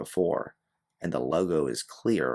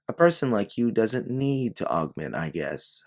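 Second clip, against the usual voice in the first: sneering; 6 semitones higher than usual. Acted. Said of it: "a sneer almost coming across her face".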